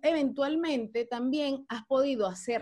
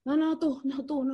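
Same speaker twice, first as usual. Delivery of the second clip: playful lovers' no-you-hang-up; coy, teasing back-and-forth; giggly late night call. Acted. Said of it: "como las novias".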